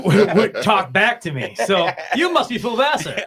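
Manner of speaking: high, loud, laughing through the punchline; can barely get it out for laughing; laughing through words. Real, not acted. Retelling the van story to a friend, laughing through it.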